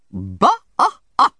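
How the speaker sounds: high, loud scornful scoff; scornful bah. A narrator's reading. Aunt scoffing at the timid doctor, loud and high. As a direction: spit out contempt.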